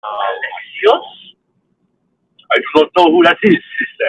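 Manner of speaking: hammed-up Deimos denying his sister; mock Deimos. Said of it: "Deimos voiced, Cassandra scene".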